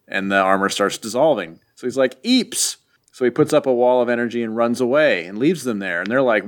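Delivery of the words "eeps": tiny high-pitched yelp; high cartoonish squeak of fright; mock alarm. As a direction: squeak it in comic panic. Doom alarmed as armor dissolves.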